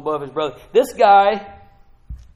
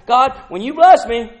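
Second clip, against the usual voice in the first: bold prayer; 5 semitones higher, 11 dB louder than usual. Retold or imitated. Quoting the prayer boldly.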